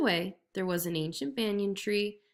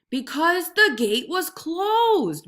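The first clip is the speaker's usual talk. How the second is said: very slow, plaintive moan; moaning tiger; 8 semitones higher, 7 dB louder, much slower than usual. A narrator's reading. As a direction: grumble in self-pity. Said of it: "moaned the tiger".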